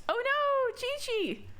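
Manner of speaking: high, alarmed call of a name; alarmed cry. Acted. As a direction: cry out in shock. Crying out a friend's name.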